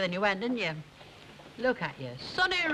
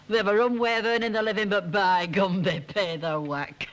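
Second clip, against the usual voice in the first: louder, chuckling through the words; laughing gloat; 4 dB louder than usual. Real, not acted. Ina gloating to her friends about her evening, laughing loudly.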